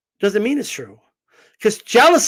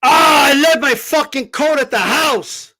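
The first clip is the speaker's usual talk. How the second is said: mock complaining; 4 semitones higher than usual. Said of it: "people will be like".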